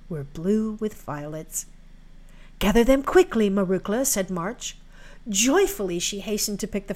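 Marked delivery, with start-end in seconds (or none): 2.6-4.0 calling out. Acted. March calls out to girl.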